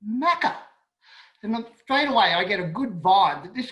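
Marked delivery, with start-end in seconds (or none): 0.1-0.6 high rising disbelieving repeat of Macca; bemused echo. Retold or imitated. Repeating the boss's nickname in disbelief, high rise.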